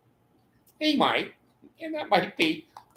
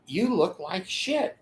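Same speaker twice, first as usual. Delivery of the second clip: wife voice; 4 semitones higher than usual. Retold or imitated. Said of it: "Betty is gonna say".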